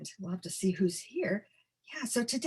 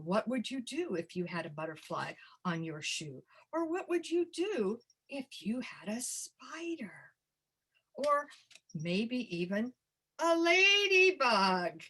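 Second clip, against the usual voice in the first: hushed, softer question, the spider part near a whisper; soft question to kids; 4 dB quieter than usual. Shown as a demonstration. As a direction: draw the children in with a quiet question. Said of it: "ask that question".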